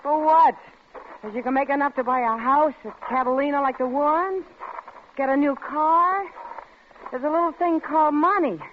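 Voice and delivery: angry. Acted. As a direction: let him have it, biting. Wife berates jobless husband.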